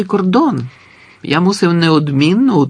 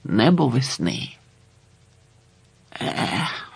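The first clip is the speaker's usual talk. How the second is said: softer, longing; wistful sigh; 6 dB quieter, slower than usual. A narrator's reading. The prisoner storyteller longs for spring, softly. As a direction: sigh over the memory.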